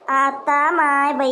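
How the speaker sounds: very slow stretched oh my; drawn-out exclamation. Acted. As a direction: drag it out in mock shock. Exclaims in disbelief.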